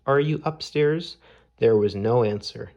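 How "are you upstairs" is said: shouting. A narrator's reading. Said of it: "he shouted".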